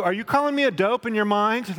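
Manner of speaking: high, loud mock accusation; suspicious coworker. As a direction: play the dope catching on. Acted coworker suspicious of thoughts.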